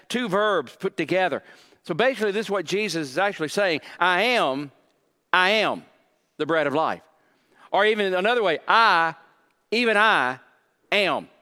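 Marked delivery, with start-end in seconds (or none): 4.0-7.0 I AM hit hard twice, the rest falling away; stress on I AM. Shown as a demonstration. Preacher showing what Jesus actually says, stress on I AM. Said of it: "The emphasis is on "I am". 8.7-11.3 "I" punched loud both times, then a pause before "am"; stress on I AM. Shown as a demonstration. Preacher rewording the Greek for the congregation, emphatic I AM. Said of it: "The emphasis is on "I am".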